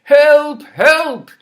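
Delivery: loud cry for help; cried out. Acted. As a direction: call out in panic. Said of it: "he cried".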